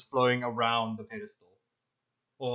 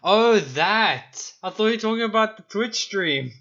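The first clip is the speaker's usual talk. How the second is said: surprised; 9 semitones higher, 8 dB louder than usual. Real, not acted. Sudden realization of misunderstanding.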